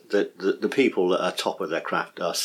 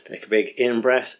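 guided breath cue; 4 semitones higher than usual. Shown as a demonstration. Teacher demos a breathing cue, lightly guiding. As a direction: coax a big in-breath. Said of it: "this is one I got from Bethany".

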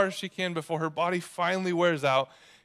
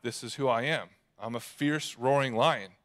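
lower, unboastful lion; matter-of-fact; 4 semitones lower than usual. Retold or imitated. Lion telling the girl who he is, matter-of-fact. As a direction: state it as simple fact, low and steady. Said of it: "but just a fact".

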